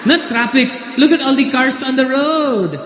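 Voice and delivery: high, insistent mock Filipino English; put-on Filipino accent pitched right up. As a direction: imitate a Filipino woman explaining insistently. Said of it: "And she goes".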